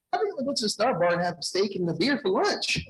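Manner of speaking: high, loud, gleeful proclamation; retold triumphant announcement. Just-quit employee telling HR his lunch plan, retold triumphant.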